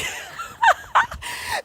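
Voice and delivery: loud burst of laughter; big laugh. Real, not acted. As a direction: shout out a laugh. Loud laugh after a boast.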